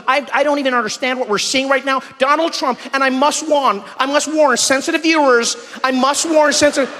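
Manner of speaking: lightly voiced scandalised newsreader warning viewers; flustered news presenter. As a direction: stammer out a grave on-air warning. Mimics shocked TV news presenter.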